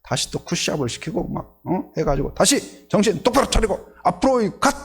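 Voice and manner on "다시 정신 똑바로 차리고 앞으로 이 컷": higher-pitched acted command; drill instructor. Instructor sending crab recruits forward once more, mildly angry command. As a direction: order the recruits with a touch of exasperation. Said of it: "교관이 막 화가 나가지고".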